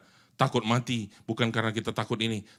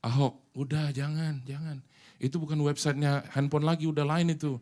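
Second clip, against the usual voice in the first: gentle voice; 3 semitones higher than usual. Acted. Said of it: "suara itu dengan lembut bilang".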